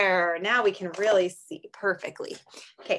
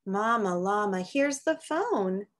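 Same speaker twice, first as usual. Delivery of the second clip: sing-song picture book read; reading to children; much slower than usual. Acted. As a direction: read it gently to little kids. Reads a picture book aloud.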